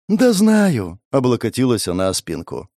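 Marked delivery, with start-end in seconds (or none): 0.1-1.0 cheerful retort. Real, not acted. Cheerful reply.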